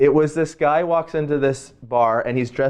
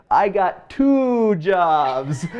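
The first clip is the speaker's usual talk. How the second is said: put-on Caribbean accent; 4 semitones higher, much slower than usual. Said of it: "like, in this, like, Caribbean accent".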